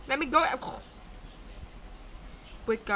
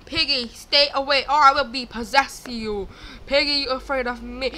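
loud, theatrical warning; mock threat; 8 dB louder than usual. Player warns Piggy to stay away, mock threat. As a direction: warn the monster off loudly.

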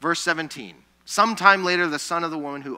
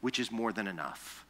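gentle answer; 5 semitones lower than usual. Retold or imitated. God answers Paul gently.

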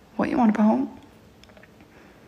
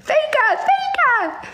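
high, sing-song jeer; taunting; slower than usual. Pretend. Taunting a commenter with a playground chant.

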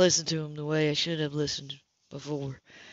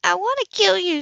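through gritted teeth; 12 semitones higher, 4 dB louder than usual. Acted. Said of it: "she said between gritted teeth".

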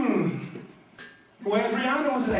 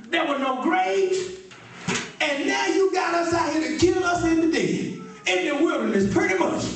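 lightly voiced, high complaining crowd; a hint of grumbling Israelites; 5 semitones higher than usual. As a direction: nag Moses, a bit higher. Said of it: "The children of Israel said".

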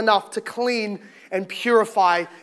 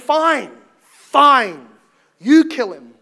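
loud, exasperated giving in; exasperated surrender; 6 dB louder, much slower than usual. Acted. Pilate giving in to the crowd, exasperated. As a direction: throw it back at them in exasperation.

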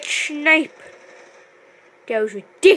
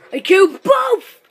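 higher, louder, crowing on BOTH; excited exclamation; 5 semitones higher, 6 dB louder than usual. Real, not acted. Gamer celebrating a double kill, excited shout. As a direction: exclaim it with BOTH ringing out high.

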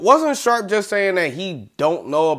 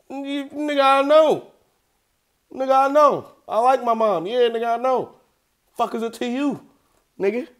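high mock exasperation; 7 semitones higher than usual. Mock impatient reply to imagined friend.

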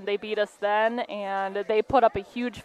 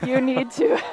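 laughing; 4 semitones higher than usual. Real, not acted. Coach laughs mid pep talk.

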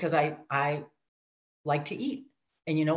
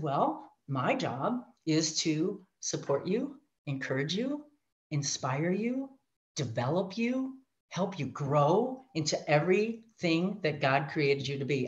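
slow, softer, calm voice of the helper; soft reassuring mentor; 2 semitones lower, 4 dB quieter, slower than usual. Retold or imitated. Woman assigned to help her, speaking slow and soft. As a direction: gently soothe her like a coach would. Lady's reassuring offer of support.

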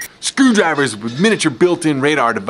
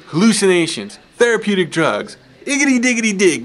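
higher, giddy manic rant; carried away; 6 semitones higher than usual. Acted. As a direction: rattle off the list, getting carried away. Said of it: "Got carried away".

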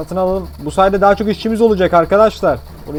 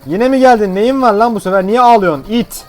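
exasperated doctor; 5 semitones higher, 4 dB louder than usual. Pretend. Doctor greets crying patient.

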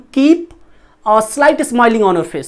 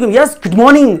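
louder, bright-energy morning greeting; louder, energetic yes good morning; 4 dB louder than usual. Shown as a demonstration. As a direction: greet them full of energy. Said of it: "अगर आप बोलेंगे ना energetic".

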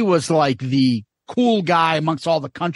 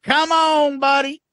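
mock exasperation; 8 semitones higher than usual. Quoting bit, exasperated.

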